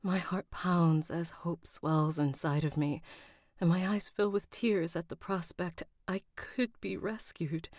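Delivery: measured audiobook read with a hopeful lift; story narration. A narrator's reading. Captive heroine tells of hoped-for rescue, story narration with a lift. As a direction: let the hope rise gently through the narration.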